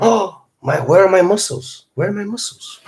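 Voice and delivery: hammed-up horror, pitched high; mock panic. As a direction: fake alarm over lost muscles. Mock panic over lost muscles.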